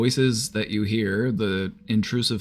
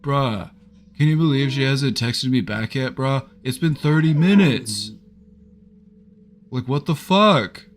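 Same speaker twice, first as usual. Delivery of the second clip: put-on loud, high, over-dramatic teen complaining; griping teenager; 4 semitones higher, 7 dB louder than usual. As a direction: gripe like an outraged teenager, hammed-up. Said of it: "they'll just be so fucking dramatic about it".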